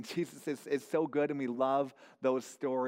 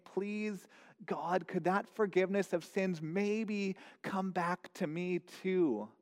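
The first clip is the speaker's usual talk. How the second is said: higher, hushed begging; pleading prayer; 4 semitones higher than usual. Acted. Tax collector's pleading prayer.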